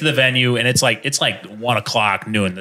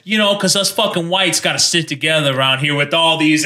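lightly imitated New York local, slightly raised; New York accent; 4 semitones higher than usual. Italian local confiding in a tourist, light New York accent. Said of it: "this Italian guy".

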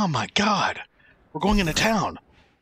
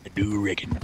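cowboy accent; 7 semitones lower, 3 dB quieter than usual. Shown as a demonstration. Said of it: "I actually do say".

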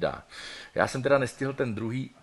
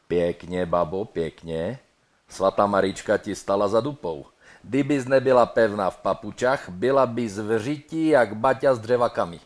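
Ostrava dialect; 5 dB louder than usual. Acted. Praising the bride in broad Ostrava dialect. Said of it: "Ostravsky by to mohlo znít opět zhruba takto".

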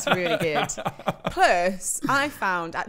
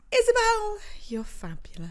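whispered; 13 semitones higher than usual. Pretend. Reading listener praise.

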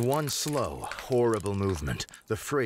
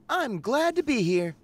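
higher sweet TV guest; 11 semitones higher than usual. Acted. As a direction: play the glamorous guest. Rachel answers on set.

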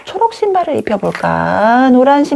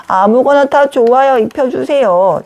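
lightly pitched-up pretend doll; eager doll voice; 3 semitones higher than usual. Paper doll says anything is fine, eager pretend voice. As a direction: answer as an eager little doll. Doll answers what it wants.

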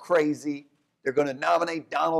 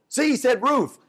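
much higher, louder insistent claim; eager dog owner; 11 semitones higher, 5 dB louder than usual. Retold or imitated. Owner defending his dog's answer, high and loud. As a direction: insist the dog got it right. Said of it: "And he goes".

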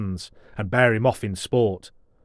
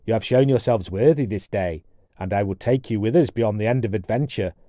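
dwarf voice; 3 dB louder than usual. Acted. Finodry dwarf speech.

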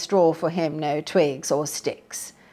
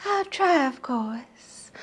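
Red Riding Hood; 7 semitones higher, slower than usual. A narrator's reading. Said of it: "Miss Hood replied".

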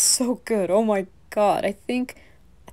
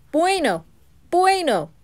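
excited; 8 semitones higher, 4 dB louder than usual. Acted. Excited about the food.

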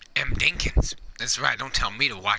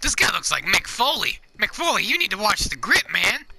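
heated family shouting; 5 semitones higher than usual. Pretend. Calling after a passerby.

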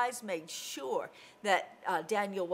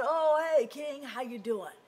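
casual greeting; 4 semitones higher, 4 dB louder than usual. Acted. Woken Daniel answers king casually.

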